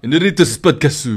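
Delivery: podcast plug in mock Japanese accent. Shown as a demonstration. Adding another podcast to the plug, Japanese accent. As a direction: add Japanese-style vowels. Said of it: "Japanese, uh".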